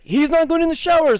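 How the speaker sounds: very high mock tattle; tattling shout. Kids telling on the boy, very high yell. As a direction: call him out to the teacher.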